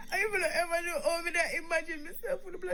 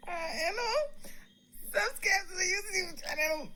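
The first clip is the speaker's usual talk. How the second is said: crying plug. Real, not acted. Woman crying while telling viewers to subscribe. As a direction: push the plug out through tears. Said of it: "laughing and she's crying".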